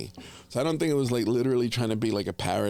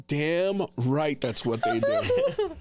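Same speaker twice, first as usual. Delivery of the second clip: mock high quote; 6 semitones higher, much slower than usual. Retold own reaction, high voice.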